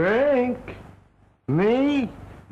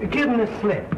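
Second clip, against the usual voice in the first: put-on drunk; 2 semitones higher than usual. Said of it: "but you're tight".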